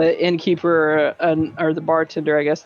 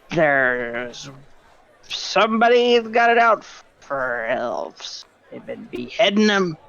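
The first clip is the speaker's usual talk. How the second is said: loud conspiratorial voice. Acted. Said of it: "with no change in volume".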